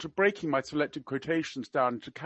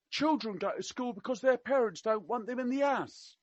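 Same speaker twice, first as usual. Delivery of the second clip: higher-pitched mock-Cockney remark; attempted Cockney; 7 semitones higher, 4 dB quieter than usual. Quoting the prince to an education campaigner, in attempted Cockney. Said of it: "I can't do Cockney. I will try my best".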